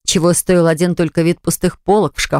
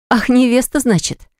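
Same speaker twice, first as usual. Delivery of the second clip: higher, hurt and bitter, lightly acted; open hurt; 6 semitones higher than usual. Eva catches the word fiancée, hurt and higher. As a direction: let the wound show. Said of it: "В её голосе послышалась неприкрытая обида".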